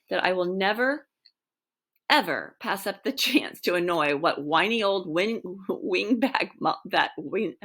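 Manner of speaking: laughter breaking into the line; losing it mid-sentence; cracking up. Real, not acted. Reader cracking up over the insult to the wingback. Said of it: "I have to start over on that one".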